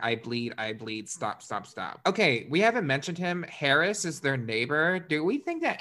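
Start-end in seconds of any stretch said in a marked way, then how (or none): 0.0-2.0 whispered pleading. Retold or imitated. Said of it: "She keeps saying".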